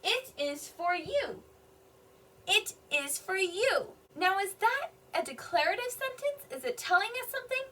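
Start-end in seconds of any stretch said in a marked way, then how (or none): 0.0-3.9 slow reading with weight on "is", falling on "you"; emphatic statement. Shown as a demonstration. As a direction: lean on "is", then settle down on "you". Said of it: "I put a little bit of emphasis on my word there".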